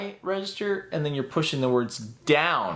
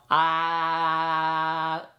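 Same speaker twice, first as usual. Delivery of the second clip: jaw laugh drill; 3 semitones higher than usual. Shown as a demonstration. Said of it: "move your mouth".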